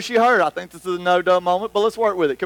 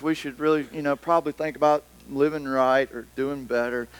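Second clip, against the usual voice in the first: mopey, quieter and lower churchgoer; gloomy Eeyore Christian; 4 semitones lower, 4 dB quieter than usual. Retold or imitated. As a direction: sigh it out like a defeated believer. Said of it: "we sound like this Christian version of Eeyore".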